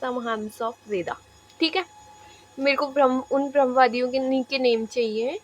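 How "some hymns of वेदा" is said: very slow, drawn-out dictation pace. Shown as a demonstration. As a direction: spell it out word by word for students to write. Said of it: "teacher dictating notes".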